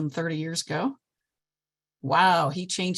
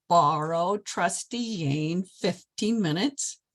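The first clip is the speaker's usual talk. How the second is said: put-on Polish accent; much slower than usual. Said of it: "talking like this".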